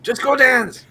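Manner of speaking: high mock French Canadian clerk; French Canadian accent. Mocking a Canadian store clerk, French Canadian accent. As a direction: play the Quebec store clerk, hammed up. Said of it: "broken French Canadian accents".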